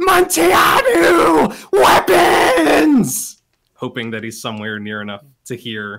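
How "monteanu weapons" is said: desperate, very high-pitched, very loud screaming. Voicing a character screaming for a companion to bring weapons: screaming. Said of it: "she just keeps screaming".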